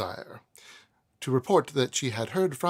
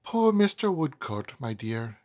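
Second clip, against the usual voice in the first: put-on emotional old lady. Widow recalling her husband to Esther, a touch of emotion. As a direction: sigh over her late husband, mildly moved. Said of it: "always with some emotion".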